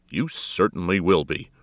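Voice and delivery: loud, curt inspector's snap; forceful official rebuke at normal pitch; snapped. A narrator's reading. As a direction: snap it back sternly. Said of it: "the inspector snapped".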